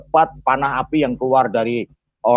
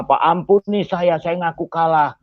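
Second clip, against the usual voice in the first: acted pleading; 3 semitones higher than usual. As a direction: plead for mercy as a retold quote. Retold begging of beaten opponent. (menirukan permohonan ampun dengan ringan)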